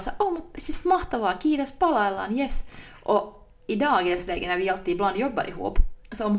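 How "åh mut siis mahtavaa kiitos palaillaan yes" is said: higher, gushing sign-off on a call. Retold or imitated. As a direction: mimic overly nice business phone talk. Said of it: "den här P R-rösten".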